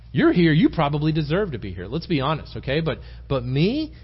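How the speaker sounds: lightly acted self-righteous comparison; mock self-righteous. Preacher imagines Joseph comparing himself to cellmates, mildly indignant. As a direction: put a touch of pointed grievance on it.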